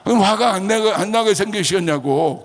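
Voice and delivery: high, indignant comeback; retold angry retort. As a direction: fire back in mock outrage. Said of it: "왜 저한테 화를 내세요". (발끈해서 되받아치는 재연)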